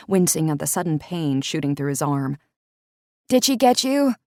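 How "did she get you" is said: called out, raised and higher; calling out. Acted. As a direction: call across the yard. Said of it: "Courtney called out".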